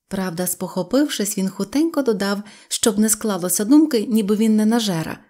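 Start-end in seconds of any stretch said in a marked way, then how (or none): none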